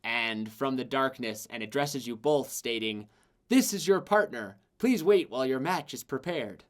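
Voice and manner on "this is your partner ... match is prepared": echoing female voice. Acted. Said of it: "a female voice echoes out".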